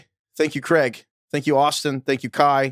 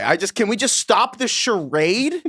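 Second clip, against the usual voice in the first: laughing; 6 semitones higher, slower than usual. Real, not acted. Laughing at the sneeze debate.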